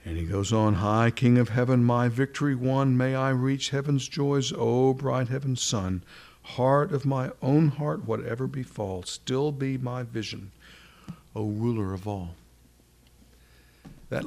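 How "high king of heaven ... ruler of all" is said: reciting a hymn. Acted. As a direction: lift the old words like a proclamation.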